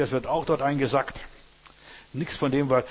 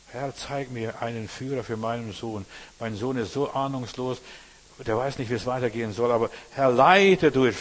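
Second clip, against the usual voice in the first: pleading prayer. Acted. Father praying for guidance for his clueless son, pleading, building.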